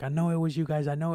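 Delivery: hammed-up I know it was you; mock insistent accusation. Imitating the robbed man.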